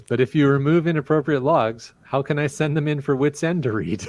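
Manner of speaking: reading through laughter; giggling as she reads; laughing while talking. Real, not acted. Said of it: "Sorry, I'm laughing at Wet Coaster's post".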